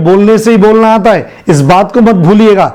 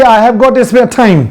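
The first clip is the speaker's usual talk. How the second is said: slow model sentence; much slower than usual. Shown as a demonstration. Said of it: "अगर है तो बोलिए".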